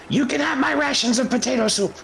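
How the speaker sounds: high little kobold voice; Spurt. Acted. Little kobold offering Bug his soup, high voice.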